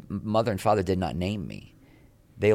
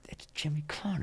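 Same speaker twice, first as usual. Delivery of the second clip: awed, breathless whisper to myself; 8 semitones higher, 8 dB quieter than usual. Retold or imitated. Actor whispering mid-scene on spotting James Caan. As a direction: sneak the name out under your breath.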